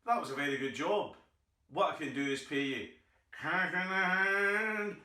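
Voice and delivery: a tradesman slipping into the secret code, "cash in the hand" dragged out; conspiratorial tradesman. Retold or imitated. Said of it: "they go".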